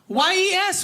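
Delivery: Y E S as three high, separate letters; spelled out. Acted. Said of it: "picked up on the spelling of words".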